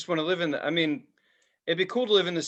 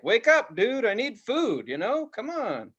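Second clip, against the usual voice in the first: higher-pitched imitation of a hungry cat; pestering cat voice; 6 semitones higher, slower than usual. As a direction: whine for food like an impatient pet.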